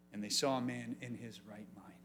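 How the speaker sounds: soft unvoiced whisper. Preacher hushing for his favourite part, whispered. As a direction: whisper it like a secret.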